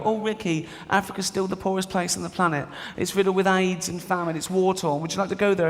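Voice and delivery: Richard Curtis. Retold or imitated. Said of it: "Richard Curtis doesn't call me up and go".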